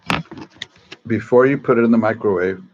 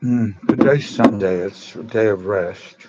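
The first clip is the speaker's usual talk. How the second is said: chewing noisily. Real, not acted. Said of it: "I'm sorry I'm eating in front of you".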